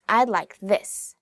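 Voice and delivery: slow, with emphasis on "this"; stress on THIS. Shown as a demonstration. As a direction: take it slowly and lean on "this". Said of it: "you should emphasize the word".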